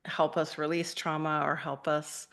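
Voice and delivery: ordinary delivery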